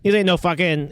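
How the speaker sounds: put-on Boston accent, swearing. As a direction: tough Boston local voice. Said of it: "just in a Boston accent".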